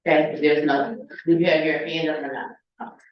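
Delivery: usual speaking voice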